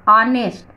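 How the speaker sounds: "ऑनेस्ट" opening straight on the vowel; silent H demo. Shown as a demonstration. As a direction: sound out "ऑनेस्ट" without any h. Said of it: "अ से शुरू हो रहा है". ("ऑनेस्ट" बिना ह के बोलना)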